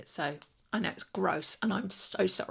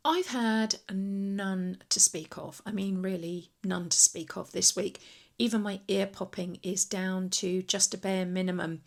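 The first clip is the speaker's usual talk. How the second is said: chewing gum. Real, not acted. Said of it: "sees me with gum in my mouth".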